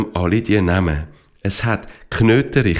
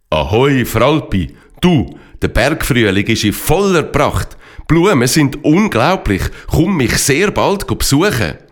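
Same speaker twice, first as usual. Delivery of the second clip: cheerful pony voice; 4 semitones higher than usual. Acted. Pony Enziano's message to Fralpi.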